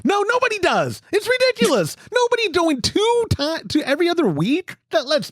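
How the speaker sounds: high laughing disbelief. Real, not acted. Laughing at Todd's cleaning habit.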